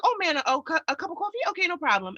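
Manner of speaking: high-pitched, imitated Southern drive-through chat; cousin's Southern accent. Cousin relaying the coffee order to the server, imitated Southern accent. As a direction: mimic a Southern local, pitched well up. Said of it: "the way she said it".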